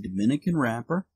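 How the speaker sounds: cigar between lips; talking around a cigar; speaking with cigar at lips. Real, not acted. Seen 0: Cigar brought to lips, in mouth by 1.1s.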